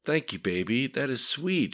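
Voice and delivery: touched and smiling. A narrator's reading. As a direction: say it with a smile. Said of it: "smiling through her swollen lips".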